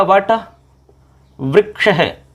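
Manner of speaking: वट, a pause, then वृक्ष drawn out; sandhi word demonstration. Shown as a demonstration. Teacher showing students the joined word, pronunciation demonstration. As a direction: say वट वृक्ष slowly as two separated parts. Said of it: "इस तरीका से बनेगा".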